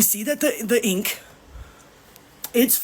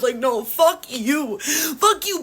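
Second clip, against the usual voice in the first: tearful curse; 3 semitones lower, slower than usual. Real, not acted. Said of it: "I may be crying right now".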